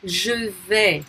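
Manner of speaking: Je vais ending on an open "veh"; silent final S. Shown as a demonstration. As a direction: say Je vais without the S. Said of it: "not pronounced".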